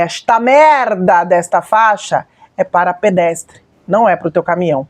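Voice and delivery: restrained re-enactment of an angry rebuke; retold angry scolding. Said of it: "eu falei desse jeito".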